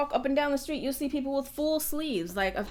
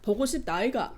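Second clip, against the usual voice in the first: swooping Busan intonation; Busan dialect; much faster than usual. Shown as a demonstration. Comparing dialects side by side, Busan dialect. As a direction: put on a Busan sing-song lilt. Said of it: "you hear the difference".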